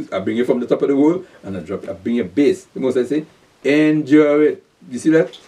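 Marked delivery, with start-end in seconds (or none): 3.6-4.6 slow insistent command. Acted. Preacher voicing the Most High.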